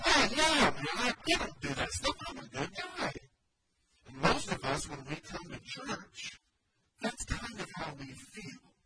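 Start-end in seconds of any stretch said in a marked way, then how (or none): 0.1-3.1 put-on smug young ruler. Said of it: "the guy's basically like".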